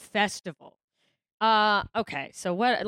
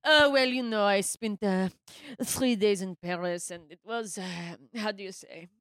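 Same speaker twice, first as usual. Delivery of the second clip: put-on European accent; slower than usual. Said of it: "come back from a trip in Europe and be like".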